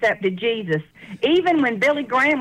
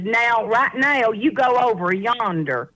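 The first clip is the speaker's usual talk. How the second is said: slow, drawn-out Southern country woman; slower than usual. Retold or imitated. Country woman directs newcomer at Water Authority, slow imitated drawl. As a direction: stretch each word like a lightly mimicked country woman. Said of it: "little sweet little country woman".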